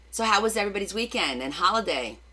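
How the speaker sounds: normal talking voice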